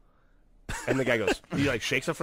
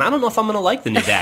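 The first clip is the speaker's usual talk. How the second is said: laughing; 9 semitones higher, 8 dB louder, much faster than usual. Retold or imitated. Daughter voiced.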